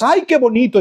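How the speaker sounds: lifted, sighing admiration; mock gushing. Preacher mimicking emotional Sunday Christians at worship, mock gushing. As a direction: imitate a sentimental worshipper gushing.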